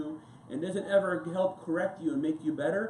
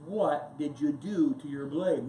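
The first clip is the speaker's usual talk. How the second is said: dismayed question; 2 semitones lower, slower than usual. Retold or imitated. Seeing abused knife.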